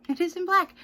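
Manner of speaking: sarcastic. Acted. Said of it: "Imagine that, you guys".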